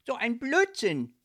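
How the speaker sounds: loud, high, annoyed exclamation. A narrator's reading. Ghost denying he is in love, annoyed. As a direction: dismiss it with an irritated shout. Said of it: "rief Leopold verärgert".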